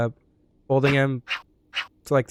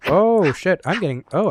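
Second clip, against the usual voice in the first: startled; 5 semitones higher, 6 dB louder than usual. Real, not acted. Suddenly attacked in game.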